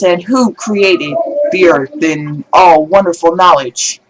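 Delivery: slow preaching cadence; lightly voiced preacher. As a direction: draw it out from the pulpit. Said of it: "as the preacher says".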